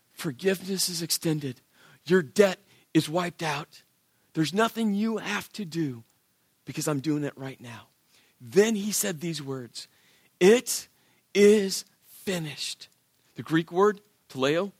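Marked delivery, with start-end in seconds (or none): 0.1-7.9 quieter, gentle and steady; soft reassurance. Retold or imitated. Jesus telling the thief his debt is gone, gentle. 10.4-12.9 drawn out with a pause after It; slow solemn words. Retold or imitated. Jesus speaking his last words, slow and solemn.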